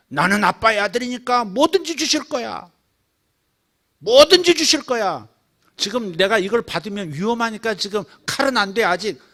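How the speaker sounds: put-on high, loud confident child asking father; bold child's plea. Child boldly telling father he'll give anything. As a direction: ask Dad for anything, sure he'll give.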